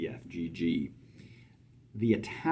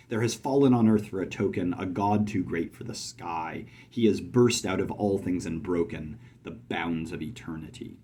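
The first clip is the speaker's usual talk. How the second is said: poem reading; 2 semitones lower than usual. Shown as a demonstration. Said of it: "it is read".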